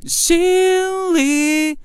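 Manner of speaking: 心 and 里 floated up high; light head voice on 心 里; falsetto. Shown as a demonstration. Teacher showing falsetto on 心 里 to students. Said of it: "里可以走气声".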